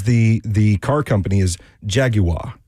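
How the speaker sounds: "Jaguar" in a clumsy English accent, JAG-yoo-ar, slowly; bad English accent. Shown as a demonstration. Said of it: "Was that a good English accent?".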